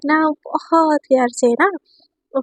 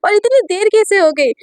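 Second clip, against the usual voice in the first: angry mother; 6 semitones higher than usual. Acted. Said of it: "एकदम गुस्से में बोलती है".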